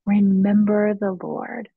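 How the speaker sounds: slow, slightly lifted call of comfort; retold call to hearten someone, each word drawn out; comforting, encouraging call. Peter calls to his wife before her death, comfortingly and encouragingly. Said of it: "comfortingly and encouragingly. He called out to her".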